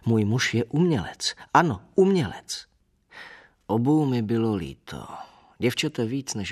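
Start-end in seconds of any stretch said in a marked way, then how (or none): 0.1-2.7 higher, louder indignant cry toward the end; imitated shout at a landlady; Marie's retold shouting. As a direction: call it out, rising on the repeat. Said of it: "jako křičívala Marie na naši hádavou bytnou".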